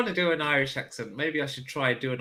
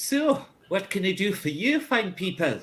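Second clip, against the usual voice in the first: attempted Scottish accent; 3 semitones higher than usual. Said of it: "With a slightly Ul-, Ulster accent".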